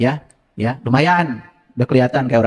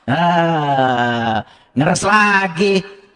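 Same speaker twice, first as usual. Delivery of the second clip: teasing voice; much slower than usual. Acted. Mock congregation dirty-minded reaction.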